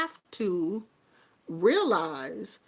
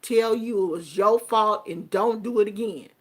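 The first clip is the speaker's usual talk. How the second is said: ordinary talk, nothing marked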